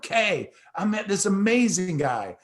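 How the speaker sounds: thrilled rush of excitement; so excited. Retold or imitated. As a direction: gush about the guy you just met. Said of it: "I was so freaking excited".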